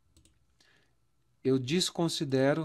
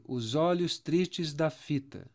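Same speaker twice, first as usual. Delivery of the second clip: slow demo; 2 semitones higher, slower than usual. Shown as a demonstration. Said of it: "vocês vão perceber".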